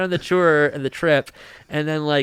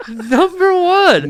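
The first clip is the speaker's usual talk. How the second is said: much higher, slow, sing-song and hollow; hammed-up owner; 7 dB louder, much slower than usual. Echoing the owner's praise for America, high and drawn out. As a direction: stretch it out like a proud salesman. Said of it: "He's like".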